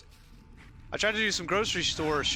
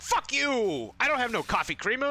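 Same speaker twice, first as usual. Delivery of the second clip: dairy case voice; 9 semitones higher than usual. Retold or imitated. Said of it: "the dairy case was like".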